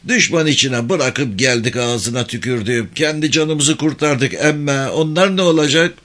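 high, troubled country-man voice; villager lamenting. Acted. Villager character worrying about family left behind.

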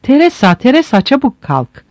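high, urgent cry to wake her; husband waking his wife as the house burns, frantic; frantic shout. A narrator's reading. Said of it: "gerçekle yüz yüze gelince çılgına döndü".

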